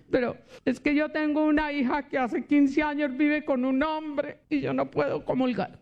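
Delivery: a hint of a tearful old lady; lightly voiced old woman. Old woman lamenting to the preacher, lightly tearful. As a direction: lightly play the grieving grandmother.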